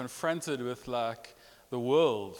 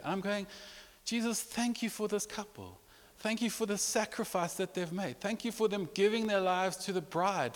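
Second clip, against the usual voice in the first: higher voice, choked with real tears; tearful; 5 semitones higher than usual. Real, not acted. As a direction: weep as you pray in thanks. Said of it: "like I'm doing now".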